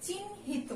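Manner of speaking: চিহ্নিত said as chinhito with an o after t; চিহ্নিত as chinhito for students; model pronunciation. Shown as a demonstration. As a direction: say চিহ্নিত ending in -to. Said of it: "আমরা এভাবে উচ্চারণ করি".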